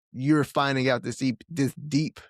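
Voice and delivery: talking around a retainer; wearing a retainer. Real, not acted. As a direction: retainer slurring the words. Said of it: "sorry, my retainer's going crazy today".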